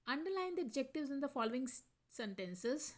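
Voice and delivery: very slow, word by word reading; slow dictation. Shown as a demonstration. Teacher reading the textbook instruction to students, slow and deliberate. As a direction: read the instruction slowly for the class.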